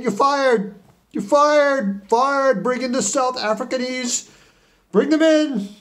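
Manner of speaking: high, loud firing rant; shouting. Acted. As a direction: bellow it like a furious boss. Boss firing the team.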